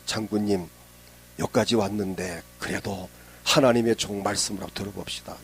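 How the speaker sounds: low, softened voice of a pleading servant; gentle persuasion. Retold or imitated. Servants talking the general round, low and soft. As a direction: coax quietly, keeping the voice low.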